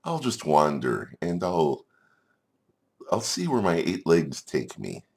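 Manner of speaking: high-pitched start, then easing down; decide breezily as a wandering little spider; carefree spider. Acted. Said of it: "But then she thought".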